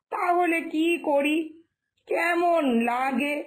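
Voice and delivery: subdued, rueful musing to oneself; regretful. Acted. Woman regretting that she hurt Poltu's mother, rueful.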